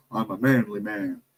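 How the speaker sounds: a hint of macho swagger, voice dropped; mock tough guy. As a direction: lightly imitate a manly man. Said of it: "he's one of these tough guys".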